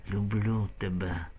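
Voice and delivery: slow, soft and rasped; hoarse dying rasp. Acted. Roman dying, rasping his love to Kateryna, hoarse. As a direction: force the words out with the last breath. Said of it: "прохрипів".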